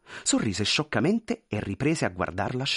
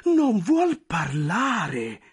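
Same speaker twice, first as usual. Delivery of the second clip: much higher, pleading, flustered voice; anxious clerk; 8 semitones higher, 4 dB louder, much slower than usual. Acted. Clerk pleading with the general, high and flustered. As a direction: beg forgiveness nervously.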